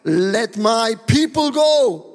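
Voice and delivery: slow, drawn-out command; grand, deliberate declaration; solemn proclamation. Acted. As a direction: stretch each word like a prophet before a king. Moses confronts Pharaoh with a demand.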